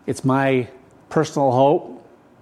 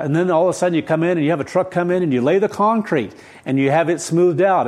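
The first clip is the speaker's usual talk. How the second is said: fast, slightly raised preaching pace; rushed; 4 semitones higher than usual. Real, not acted. Preacher describing construction to his congregation, rushed. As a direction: race through the building steps. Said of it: "I'm going through this about a thousand miles an hour".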